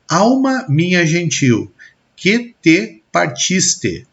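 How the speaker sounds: slow, measured verse reading; poem recital. Acted. Teacher reciting Camões to the class, slow and measured. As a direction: savor each syllable of the verse.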